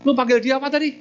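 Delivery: a furious son confronting the monk; angry demand. Acted. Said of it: "Ngamuk dia, marah besar dia". (marah besar, suara tinggi dan keras)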